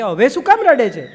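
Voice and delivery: asked through a laugh; amused husband laughing at his wife's tears; amused question. Acted. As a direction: chuckle while asking why she cries. Kabir asks why she cries again.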